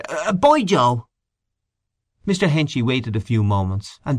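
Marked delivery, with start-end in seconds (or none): 0.1-1.1 higher-pitched call after someone leaving; hesitant start, then a raised farewell call; sudden call. Acted. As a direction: call out suddenly, as if just remembering. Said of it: "called out suddenly".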